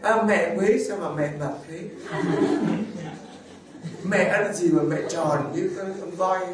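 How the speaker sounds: teasing with a laugh in it; laughing tease. Acted. Priest teasing a plump parishioner, laughing. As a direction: rib her affectionately, chuckling.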